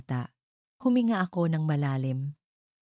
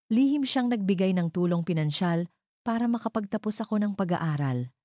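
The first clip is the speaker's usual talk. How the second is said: a slight tremor of feeling, slowing on the name; holding back tears while telling him; voice trembling with emotion. Acted. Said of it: "Ang aking boses ay bahagyang nanginig sa emosyon".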